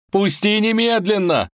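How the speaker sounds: громкий высокий вопль; вырывается и голосит. Acted. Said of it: "голосил Иван". (парень вырывается из рук волка, голосит)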